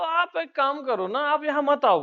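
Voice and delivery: mock visitors' voice. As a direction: lightly imitate the guests talking back. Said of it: "बोले".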